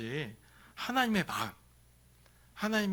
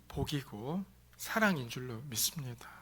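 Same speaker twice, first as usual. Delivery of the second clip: hushed; 3 semitones lower, 8 dB quieter than usual. Real, not acted. Sermon, dropped voice.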